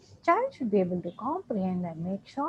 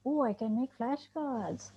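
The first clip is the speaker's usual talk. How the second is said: imagined inner voice. Retold or imitated. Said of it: "you have to say".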